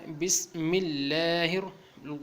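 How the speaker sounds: slow, drawn-out syllable-by-syllable recitation; Qaida recitation model. Shown as a demonstration. Teacher showing learners how Bismillah is recited, slow measured recitation. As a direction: recite slowly, stretching the vowels. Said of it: "لاہر پڑھنا ہے".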